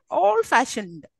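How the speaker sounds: put-on "Old-fashioned" with weight on FASHIONED; Old-fashioned, drawn out with second-part stress; stress on last part. Shown as a demonstration. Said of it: "Don't we say that?".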